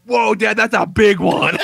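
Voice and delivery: put-on high kid voice, slowing at the end; amazed child imitation. Son to his dad at the toilet, high awed imitation. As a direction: marvel loudly like a little boy.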